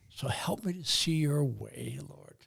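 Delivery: hushed, whispered prayer to God. Real, not acted. Guest breaks into prayer.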